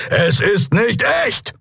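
high, urgent encouraging call. A narrator's reading. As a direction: shout encouragement to a friend. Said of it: "rief er".

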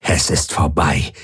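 low lightly growled soldier voice; a hint of a low growl. A narrator's reading. The Aur warrior to Kirai, low growl. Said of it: "knurrte die Aur".

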